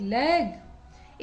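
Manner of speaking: लेग drawn out very slowly; slow blended word. Shown as a demonstration. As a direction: stretch लेग out for the class. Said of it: "ल, एग".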